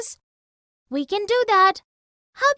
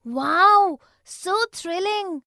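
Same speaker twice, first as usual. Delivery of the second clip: a burst on wow, then a slow, thrilled so thrilling; the girl thrilled at the horse ride, joyful and slow; 3 semitones higher, much slower than usual. Acted.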